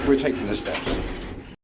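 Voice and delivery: slow weary echo; slow resigned repeat. Real, not acted. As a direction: drag it out slowly, resigned.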